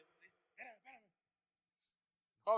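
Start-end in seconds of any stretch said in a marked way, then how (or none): 0.0-1.0 mock unhurried. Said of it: "yo no me imagino que agarró y la dobló".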